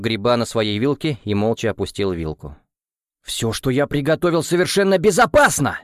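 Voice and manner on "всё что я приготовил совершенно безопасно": loud, high enraged defence; furious roar. A narrator's reading. Cook defends his food in a furious roar. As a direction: bellow in fury at the insult. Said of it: "взревел Бангани в ярости".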